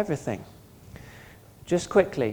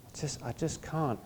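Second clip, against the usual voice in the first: quiet surrender; 7 dB quieter than usual. Acted. Quiet surrendered take of the same words.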